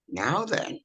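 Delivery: measured delivery with spaces between phrases; slow, deliberate speech. Shown as a demonstration. Showing how she speaks now, slow and deliberate. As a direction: take your time over each phrase. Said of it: "slower than I used to do".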